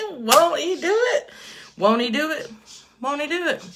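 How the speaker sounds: high excited repeated praise. Real, not acted. Praising God after making a sale, excited. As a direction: sing out the praise.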